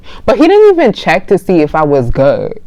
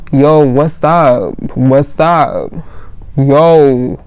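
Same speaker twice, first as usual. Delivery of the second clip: slow, drawn-out guy voice, lightly imitated; a hint of a puzzled guy, slowly; guy checking on her; 3 semitones lower, much slower than usual. Guy to girl pretending she passed out, slow imitation.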